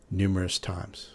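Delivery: ordinary talk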